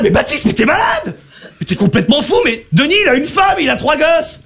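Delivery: acted appalled outcry, pitch climbing; shocked teammates. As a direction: plead in disbelief, rising as it goes. Acted shocked teammates scolding him. (coéquipiers choqués, indignation jouée)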